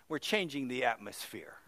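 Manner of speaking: breathy whisper, voice dropped away; low awed whisper of faith; hushed whisper. Retold or imitated. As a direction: whisper it so nobody else at the bedside hears. Pastor explains his quiet prayer.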